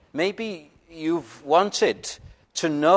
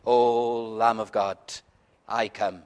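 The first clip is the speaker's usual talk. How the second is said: soft, hushed recited hymn lines; quiet hymn prayer; 3 semitones lower, 6 dB quieter than usual. Shown as a demonstration. Preacher quoting a hymn to Christ, softly. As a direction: say it low and humble, like a whispered vow. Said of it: "you look to Christ and you say".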